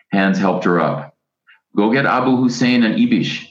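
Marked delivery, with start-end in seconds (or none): 1.8-3.5 a high, commanding order; a man taking charge of the scene. A narrator's reading. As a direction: bark out the order to fetch help. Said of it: "a man ordered".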